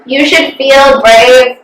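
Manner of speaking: slow, tender encouragement; a mom gently reassuring her upset daughter, slow and tender; gentle reassurance. Retold or imitated. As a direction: say it slowly to comfort. Mom's comforting words.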